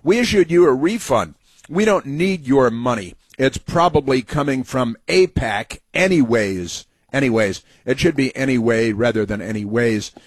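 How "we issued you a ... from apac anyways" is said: mocking read.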